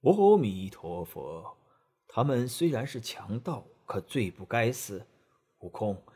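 a hint of a pious master scolding; reproachful monk. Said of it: "被唐僧埋怨了一通".

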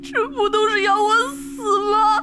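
slow tearful whine; hopeless near-sobbing question; trapped candidate asks through tears; despairing cry. Acted. Despair at both options.

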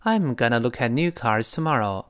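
whole sentence linked, "gonna" reduced; connected model reading. Shown as a demonstration. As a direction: model it smoothly with "look at" as loo-kat. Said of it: "完整听一下这句话".

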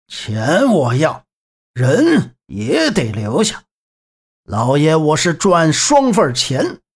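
slow, menacing bandit drawl; cold sneer. Acted. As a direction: stretch the words out with cold contempt. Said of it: "贼人冷笑道". (贼人冷笑，拖着长腔)

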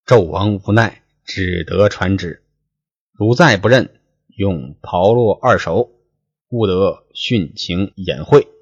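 measured storyteller's reading voice, lines drawn out; 说书人朗读古文; classical story reading. Acted. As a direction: read the old novel aloud like a storyteller. Reads classical novel text aloud.

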